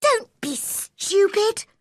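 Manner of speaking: slow, high, scornful; cross cry. A narrator's reading. Mary scolding Colin. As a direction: scold him hard. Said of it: "cried Mary".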